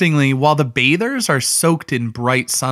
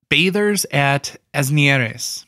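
slow Spanish accent on "Bathers at Asnieres"; slower than usual. Shown as a demonstration. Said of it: "I'm suddenly doing, like, a Spanish accent on that".

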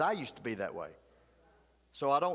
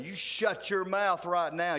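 slow, firm, loud command; loud rebuke; 4 semitones higher, 4 dB louder, slower than usual. Retold or imitated. Preacher loudly rebuking men cursing before his wife, firm. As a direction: bark it across the restaurant. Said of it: "I said real loud over the whole building".

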